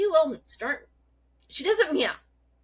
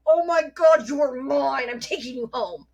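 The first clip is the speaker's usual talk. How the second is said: gushing; 2 semitones higher, 5 dB louder than usual. Retold or imitated. Gushing over a feisty kitten.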